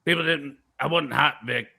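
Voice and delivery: lightly voiced rumble in the back; a hint of a rumbling impression; Alex Jones. Conspiracy talker explaining to Vic, lightly rumbling put-on voice. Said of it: "it's a little rumbling".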